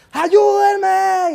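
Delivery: high, loud plea; panicked yell into the canyon; desperate shout for help. Retold or imitated. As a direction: scream for help while falling. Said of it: "escucha un eco que le dice".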